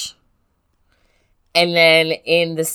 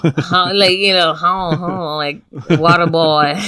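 mock French accent.

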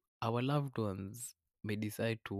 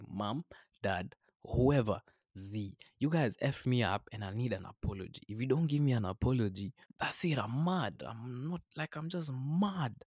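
mock tantrum; 2 semitones higher, 3 dB louder than usual. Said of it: "throw a fit and say".

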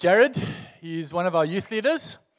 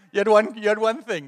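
louder, higher mock exasperation; playful exasperation; 4 semitones higher, 5 dB louder than usual. Real, not acted. Pastor teasing the youth leader before the church, louder. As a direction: rib him for forgetting shoes.

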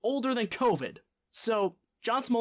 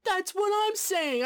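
high, stretched-out exclamation; slow, high-pitched vindicated cry; exasperated agreement; 10 semitones higher than usual. Real, not acted. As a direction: wail it in emphatic agreement. Agrees emphatically with the shouted why.

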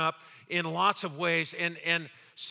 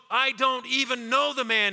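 emphatic sworn denial, higher and louder; Peter; 6 semitones higher, 5 dB louder than usual. Acted. Peter denying Jesus with an oath, emphatic and loud. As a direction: swear it forcefully. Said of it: "this time with an oath".

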